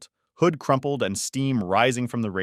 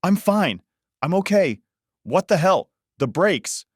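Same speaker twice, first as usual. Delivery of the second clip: put-on loud, high, slurred drunk voice; drunk slurred shouting; 9 semitones higher, 4 dB louder than usual. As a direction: slur it like a drunk, raised. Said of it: "raised, slurred voice".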